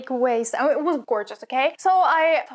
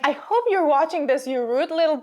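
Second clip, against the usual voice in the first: mock telling off; 3 semitones higher than usual. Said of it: "I'm joking".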